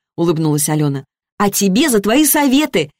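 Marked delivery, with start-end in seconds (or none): 1.4-2.9 high, bright-eyed happy chatter; joyful chirping. A narrator's reading. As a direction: chirp it out, overjoyed and quick. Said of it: "радостно щебетала Лиза".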